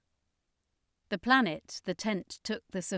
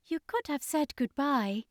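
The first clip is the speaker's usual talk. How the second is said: joking; 7 semitones higher than usual. A narrator's reading. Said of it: "somewhat jokingly".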